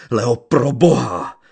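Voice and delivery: put-on young gypsy crying out as she falls; desperate call. A narrator's reading. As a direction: call her name in panic. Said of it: "volal mladý cikán".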